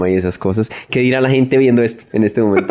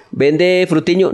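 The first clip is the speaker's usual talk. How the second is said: higher, drawn-out customer question; asking shopkeeper; 8 semitones higher, much slower than usual. Retold or imitated. Customer asking in a Bogotá shop, lilting question. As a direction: stretch it out as a tentative shop query. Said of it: "me preguntaba como que".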